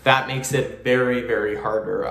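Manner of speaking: talking through puckered lips; lips pursed. Shown as a demonstration. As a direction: lips pushed out in a tight pucker. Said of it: "go like this".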